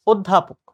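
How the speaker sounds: অধ্যাপক in one go, as "oddhapok"; correct pronunciation. Shown as a demonstration. Teacher confirming the right answer, correct অধ্যাপক as "oddhapok". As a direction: start অধ্যাপক on a rounded o, "oddhapok". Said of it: "প্রমিত উচ্চারণ হচ্ছে".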